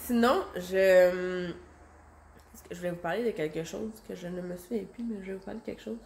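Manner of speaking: ordinary delivery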